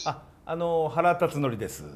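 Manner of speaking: lightly voiced baseball manager impression, slightly subdued; 原辰徳. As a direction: introduce yourself in a lightly put-on celebrity voice. (原辰徳のものまねで軽く名乗る)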